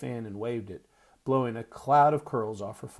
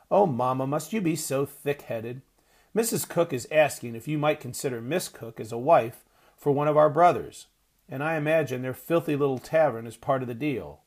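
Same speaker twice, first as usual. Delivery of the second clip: louder, mocking the mother; a sneering girl's raised voice; scornful outburst; 3 semitones higher, 5 dB louder than usual. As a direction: scold her as thick-headed. Janine mocks her mother.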